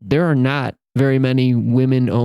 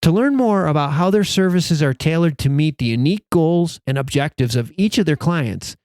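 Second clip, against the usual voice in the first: lightly polished podcast ad read; podcast sponsor announcement. Acted. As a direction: read the sponsor message to listeners, measured. Reads a sponsor message.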